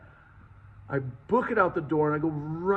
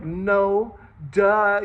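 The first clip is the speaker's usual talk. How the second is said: smart-aleck denial; 4 semitones higher, 6 dB louder than usual. Retold or imitated. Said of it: "I'm being a smart ass".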